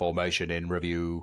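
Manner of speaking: put-on robot-like machine voice. Announcing the Formation in Review segment, in a put-on robotic voice. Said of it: "I was trying to go robot-y with, with Formation in Review".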